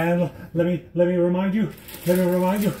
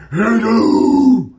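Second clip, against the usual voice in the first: bright hello; 3 semitones higher, 6 dB louder than usual. Retold or imitated. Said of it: "I'm like".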